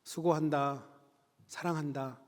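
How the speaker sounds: softly voiced, lightly acted tenderness; gentle reassurance. God comforting a weary pastor, gently and softly. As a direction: quietly offer comfort, letting the voice drop away.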